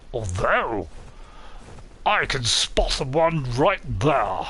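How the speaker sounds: slow, theatrical character voice; playful put-on voice. Streamer spotting a rock for viewers, playful put-on voice. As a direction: put on a silly voice, drawing words out. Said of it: "I can do all kinds of voices".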